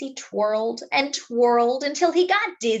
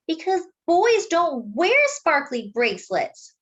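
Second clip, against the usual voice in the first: know-it-all sister; 8 semitones higher, 3 dB louder than usual. Acted. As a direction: explain it like an obvious rule. Jessie rule.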